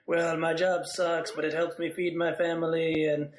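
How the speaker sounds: slow, lightly put-on accent; a weak stab at an accent; bad Chinese accent. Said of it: "And a terrible Chinese accent".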